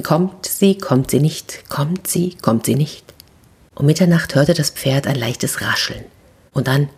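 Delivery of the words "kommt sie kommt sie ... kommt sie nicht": alternating hushed will-she-won't-she; a nervous horse counting doubts in whispers; anxious whisper. Acted. (ängstliches Flüstern, hin und her)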